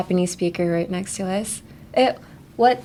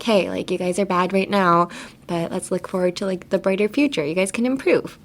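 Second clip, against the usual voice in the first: mellow coach, trailing softer; nicer, mellow; 3 dB quieter than usual. Acted. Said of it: "a nicer, mellow way of saying".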